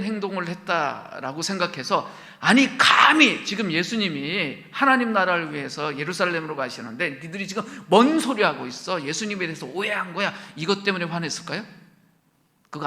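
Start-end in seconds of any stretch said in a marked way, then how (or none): 2.4-10.3 louder, scolding the two brothers; indignant rebuke. Acted. Disciples scolding James and John, mock indignant. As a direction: tell them off hotly.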